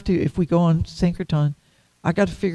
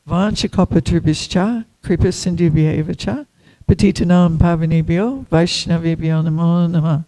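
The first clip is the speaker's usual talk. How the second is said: recited prayer. Acted.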